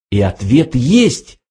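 slowed, lightly awed question; breathless with excitement. A narrator's reading. Fook asks the computer, mildly breathless with excitement. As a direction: ask slowly with a touch of suspense. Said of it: "задыхаясь от волнения".

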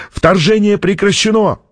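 high-pitched urgent report; acted cry, volume held; excited shout. A narrator's reading. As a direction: call the news out to the room. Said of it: "крикнул техник".

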